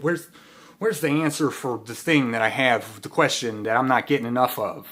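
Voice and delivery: loud, exasperated searching; frustrated pleading. Retold or imitated. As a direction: demand the answer, fed up. Searching YouTube for answers.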